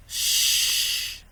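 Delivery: unvoiced shush; hushing. A narrator's reading. Father hushing his panicked son, shush. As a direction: hush him firmly.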